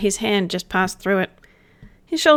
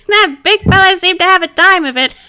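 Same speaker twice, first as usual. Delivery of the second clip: much higher and louder, laughing through it; 11 semitones higher, 8 dB louder than usual. Acted. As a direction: talk through the giggles. Spirit laughing mid-line.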